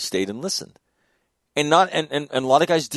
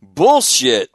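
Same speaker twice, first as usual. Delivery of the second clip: retold outburst; 7 dB louder than usual. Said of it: "And he says".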